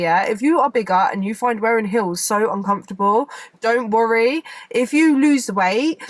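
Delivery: ordinary delivery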